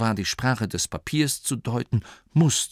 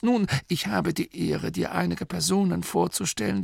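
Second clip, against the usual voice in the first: Dorcas voice; 9 semitones higher than usual. Acted. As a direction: answer respectfully in a raised voice. Dorcas introduces group.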